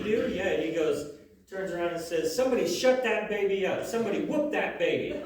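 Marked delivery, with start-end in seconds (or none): 2.3-5.2 put-on higher, louder, bossy toddler shout; kid yelling. Little Mikey yells at the crying baby, loud. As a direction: yell it like a fed-up three-year-old.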